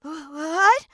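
scared stuttering, breaking off words; terrified stammer. Acted. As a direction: stammer it out in fright. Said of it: "Dinosaur was so terrified he started to stammer".

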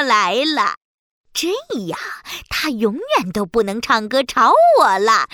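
scheming. Acted. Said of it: "海女巫心里打起了坏主意".

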